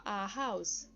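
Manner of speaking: A HOUSE with an audible breathed H; A, then HOUSE with its H spoken; pronounced H. Shown as a demonstration. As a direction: sound the H of HOUSE like a Brazilian R. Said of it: "vai ter um sonzinho de R".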